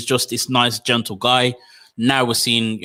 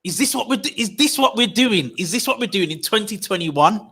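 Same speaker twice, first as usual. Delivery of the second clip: exasperated disbelief; 8 semitones higher than usual. Retold or imitated. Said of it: "I'm just like".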